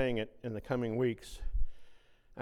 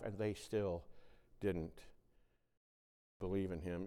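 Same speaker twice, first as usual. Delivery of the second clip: soft, lower, pausing delivery; quiet emphasis; 5 semitones lower, 7 dB quieter than usual. Acted. Preacher to congregation on unbelief, soft and pausing.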